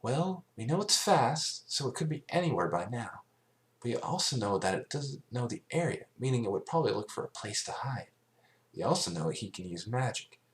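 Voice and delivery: a hint of a clever young mare; thoughtful Twilight. Twilight reasons aloud.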